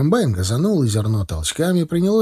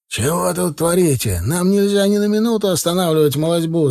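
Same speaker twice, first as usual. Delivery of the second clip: higher, indignant scolding; angry shout; 6 semitones higher than usual. A narrator's reading. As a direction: scold with lifted pitch, only mildly raised volume. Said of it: "закричал рассерженный агроном". (рассерженно, повышенным тоном)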